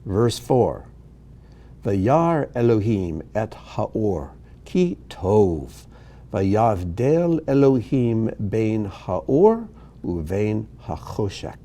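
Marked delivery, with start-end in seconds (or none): 1.8-11.6 slow, drawn-out syllables; measured Hebrew reading. Shown as a demonstration. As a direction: read each phrase slowly, pausing between phrases. Reads Hebrew verses aloud slowly.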